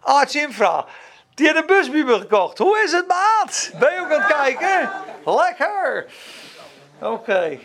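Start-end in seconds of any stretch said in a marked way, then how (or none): 2.6-6.1 higher, bright friendly call-out; cheerful greeting. Real, not acted. Greeting an online viewer.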